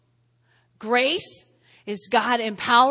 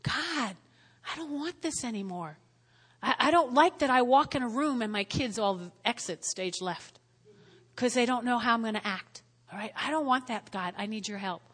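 soft prayer; 6 dB quieter than usual. Retold or imitated. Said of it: "You had to say".

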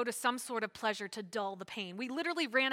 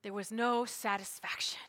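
hushed; 2 semitones lower, 3 dB quieter than usual. Real, not acted. Hushed let-down after no response.

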